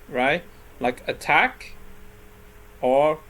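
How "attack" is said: "attack" with the stress on its second syllable. Shown as a demonstration. Teacher giving a verb example, "attack" stressed on the second syllable. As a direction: say "attack" leaning on -TACK. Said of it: "the second syllable".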